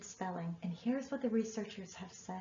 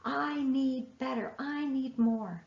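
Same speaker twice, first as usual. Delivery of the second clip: loud, demanding parent, slower on the last lines; harsh taskmaster; 2 semitones higher, 4 dB louder than usual. Retold or imitated. Parent as taskmaster scolding child's writing, mock demanding. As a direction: push like a drill sergeant, mock-harsh. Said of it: "not your job to say".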